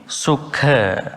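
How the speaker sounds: slow "Sukha" with a breathy push on the kh; "Sukha" with the kh clearly puffed; aspirated kh. Shown as a demonstration. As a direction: draw out "Sukha", leaning on the aspirate. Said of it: "It should be".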